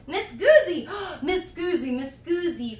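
playful film-catchphrase voice; movie quote imitation. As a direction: lightly mimic a Eurotrip character. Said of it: "From Eurotrip".

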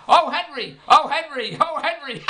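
hammed-up cries through the wall; mock hollering. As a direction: holler it out as a repeated joke cry. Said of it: "all night long she was hollering".

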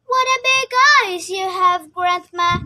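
high, loud surprised gasp. Acted. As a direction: sound amazed and startled. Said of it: "he said in surprise".

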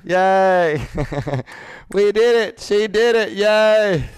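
high, loud whoops of victory with a laugh; celebratory cheer. Real, not acted. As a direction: cheer out loud for a teammate's win. Celebrating a finished role-play objection exercise.

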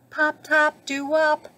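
light bubbly fish voice. Acted. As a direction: bubble it out high. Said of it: "bubbled Fish".

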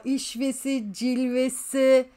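mock radio-host delivery; slow, savoured words. Shown as a demonstration. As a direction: drawl out cilvesi slowly like a radio host. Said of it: "Tam böyle podcastlik olduk ha".

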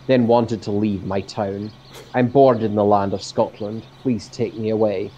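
reciting a poem; poem reading. Acted. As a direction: recite it like verse. Reads second poem aloud.

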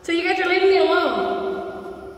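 nervous. Real, not acted. Scared of being left alone.

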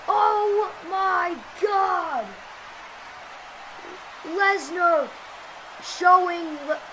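excited live play-by-play; wrestling commentator. Acted. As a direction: call the match like a ringside announcer.

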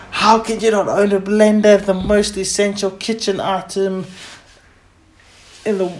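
high, loud mock disbelief; mock outrage. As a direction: gasp at the missing blender.

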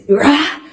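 imitating his yell, half-strength; a brief imitated bellow; retold roar. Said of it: "at the top of his lungs".

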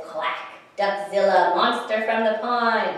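loud, dramatic monster-movie billing; mock monster announcer. Duck thrilled by the film sign, dramatic announcing. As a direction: announce it big, like a film trailer.

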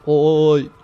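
loud sudden "ôi"; startled cries. Real, not acted. Caught by fire, loud startled cries. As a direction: recoil at the hit.

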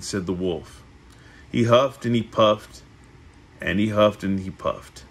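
measured read-aloud with lifted phrase openings; storybook narration. A narrator's reading. Reading the three little pigs to a listener, storybook narration. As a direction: read it like a picture book.

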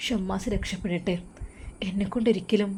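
broken, whispered through tears; tearful whisper. Acted. Daughter answers her worried mother in a tearful whisper. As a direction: hush it out as if crying too hard to speak. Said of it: "നീ എന്താ ഇങ്ങനെ കരയുന്നത്?".

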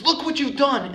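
high, loud fatherly amazement; proud father. Retold or imitated. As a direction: show off the child's achievement, voice lifted high. Proud father shows son cleared wall.

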